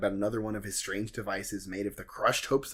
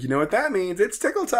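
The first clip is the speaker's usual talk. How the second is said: hammed-up furniture voice; 8 semitones higher, 6 dB louder than usual.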